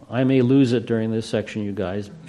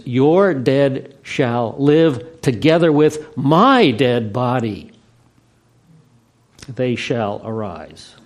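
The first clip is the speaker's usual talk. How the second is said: slow emphatic reading; much slower than usual. Shown as a demonstration. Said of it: "grammar retains all its proper attributes".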